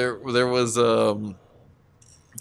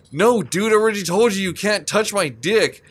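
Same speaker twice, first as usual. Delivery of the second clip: yelling; 7 semitones higher than usual. Retold or imitated. Overheard guy yelling in hallway.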